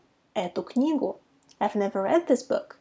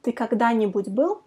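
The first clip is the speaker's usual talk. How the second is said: quicker run at "Ты когда-нибудь был?"; fast practice take; faster than usual. Shown as a demonstration. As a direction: say it at natural speed, no gaps. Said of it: "try to pronounce it fast".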